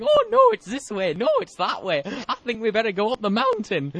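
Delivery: high, silly squabbling voices; hammed-up hikers' squabble; bickering lost hikers. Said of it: "walking boots going".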